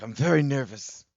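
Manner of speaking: lightly put-on British-American voice; mild impression of a nervous man; Connor. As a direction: announce nerves in a mock-earnest accent. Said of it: "he's like".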